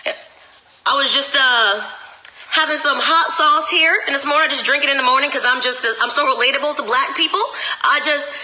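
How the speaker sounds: lightly mocking a put-on Southern accent, rising on Lordy; mock AOC Southern accent. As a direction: parody AOC pandering to Black voters, hamming it up a little. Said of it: "A O C now talks like us".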